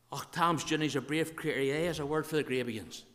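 run-together Ulster Scots gossip about a friend; broad, lively Ulster Scots. Shown as a demonstration. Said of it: "speak Ulster Scotch".

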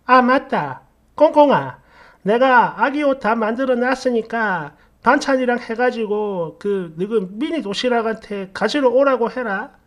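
acted mother-in-law suddenly remembering; sudden recollection. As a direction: call out as if it just popped into your head. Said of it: "갑자기 뭔가 생각이 났다는 듯".

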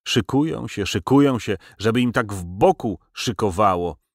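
the Gypsy cursing the thieves between sobs; cursing while sniffling. Acted. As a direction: spit the curse through sniffles. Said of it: "zaklął Cygan, pochlipując".

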